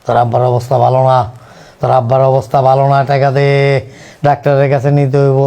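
calling out loudly in distress; shouted plea. Acted. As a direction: cry out for help with money. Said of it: "তুমি চিল্লাও না".

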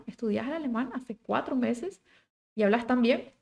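mild, softly spoken disbelief; surprised question. Shown as a demonstration. Teacher translating the surprised question for learners, mildly incredulous. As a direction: ask with a lilt of surprise. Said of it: "Podría ser en ese tono".

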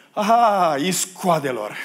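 sudden loud, high outburst; accusing shout. Acted. Joseph seeing his brothers again, accusing shout. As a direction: pounce on them with a drawn-out accusation.

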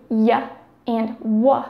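y and w as short isolated sounds, yuh and wuh; y and w sounded out, not letter names; glide sounds. Shown as a demonstration. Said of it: "The glides include".

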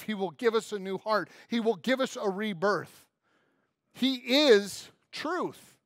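slow, loud emphatic preaching. Acted. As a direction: proclaim each promise with weight. Preaching at full force.

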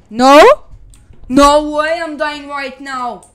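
loud, panicked no; desperate yell. Real, not acted. About to die in fight.

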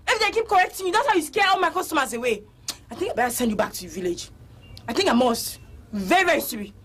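scolding. Acted. Owner scolds the salesgirl.

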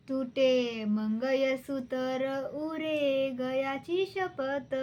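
measured, sing-song recitation of a folk poem. Acted. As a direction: recite each line with a lilting rise. (कविता गायन शैलीत, लयबद्ध)

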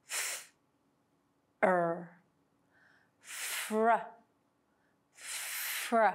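"F", "l" then "fl", "f", "er" then "fr", built up slowly; slow blend build-up. Shown as a demonstration. Teacher slowly building blends for students to copy. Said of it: "slowly pronounce the sounds in the two blends with me".

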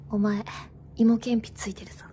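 低くぼそっと決める男の台詞; 声を落としてイケメン風に告げる. Acted. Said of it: "それ男がやるやつじゃない？". (低音の男役芝居)

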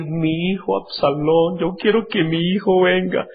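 a hint of an aching father; longing father. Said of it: "David comenzó a decir".

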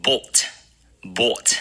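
bought with a rounded aw vowel; British bought. Shown as a demonstration. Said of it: "英国人会发成".

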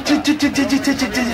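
high, nervous chi-chi fretting; anxious chi-chi while his keeper slips; tense chi chi. Real, not acted. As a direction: fret over the ball in rising alarm. Tense moment near own goal.

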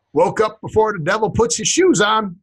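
light Southern US twang; Southern accent. Acted. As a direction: slip into a slight Southern accent. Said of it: "I don't know why I went Southern with that".

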